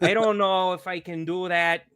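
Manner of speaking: mild Minnesota attempt, long Os; Minnesota accent. Shown as a demonstration. Podcaster doubting his own attempt, mild Minnesota accent. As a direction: try a hesitant Minnesota accent. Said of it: "Do Minnesota fast".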